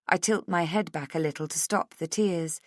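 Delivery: plain reading voice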